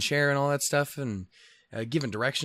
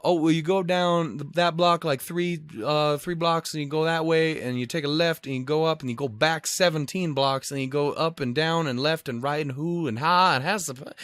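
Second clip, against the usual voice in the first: higher, rambling endless directions; rambling local; 4 semitones higher than usual. Retold or imitated. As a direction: spew confused directions, higher. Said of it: "how do I get to our hotel".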